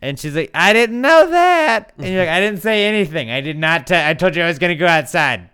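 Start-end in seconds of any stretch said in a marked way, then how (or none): 0.5-1.9 high, drawn-out mock shout; hard-of-hearing grandma. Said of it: "your grandma and she can't hear you". 2.3-5.5 raised, high voice for deaf ears; shouting to grandma. Acted. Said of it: "talking to your grandma and she can't hear you".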